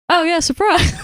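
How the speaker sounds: high sing-out, playfully hammed up; mock surprise reveal. Film reviewer mimicking a mother revealing a secret child, mock cheery. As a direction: imitate a breezy, high-pitched "ta-da" announcement.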